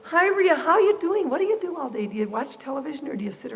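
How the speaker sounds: sing-song chatter of well-meaning people; a touch of syrupy small talk; cheery visitor. Retold or imitated. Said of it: "come up to me then and say".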